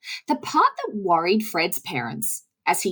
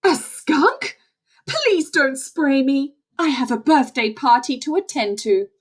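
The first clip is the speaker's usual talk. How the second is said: alarmed deer; 4 semitones higher than usual. Acted. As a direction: beg the skunk not to spray.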